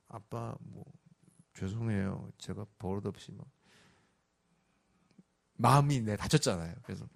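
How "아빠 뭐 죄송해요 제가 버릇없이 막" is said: put-on much softer, timid mumbling kid; sheepish apology. Son creeping in to apologize to dad, timid and soft. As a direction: hang your head and apologize. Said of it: "쭈뼛쭈뼛하면서".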